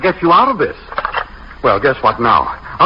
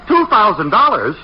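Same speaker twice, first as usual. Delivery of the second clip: incredulous; 5 semitones higher than usual. Acted. Balks at the bail sum.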